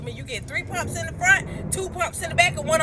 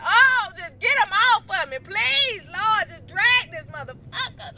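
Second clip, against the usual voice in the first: pleading; 5 semitones higher than usual. Pretend. Stuck under a marathon lover, a hammed-up plea to the Lord. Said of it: "I probably would've been like".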